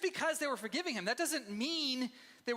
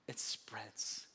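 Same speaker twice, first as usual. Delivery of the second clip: whispered; 13 semitones lower, 8 dB quieter than usual. Real, not acted. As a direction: whisper the words it spreads, much softer and lower. Repeats the line, hushed, after sigh.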